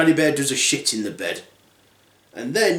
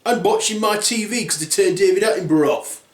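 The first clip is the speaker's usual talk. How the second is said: lightly voiced indignant father bear, higher pitch; Daddy Bear; 5 semitones higher than usual. Father bear finding his chair used, indignant. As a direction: protest like a put-out dad. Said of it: "Daddy Bear's like".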